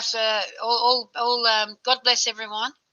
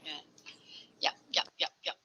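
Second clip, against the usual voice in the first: whispering; 5 semitones lower, 12 dB quieter, much faster than usual. Real, not acted. Quick aside to herself.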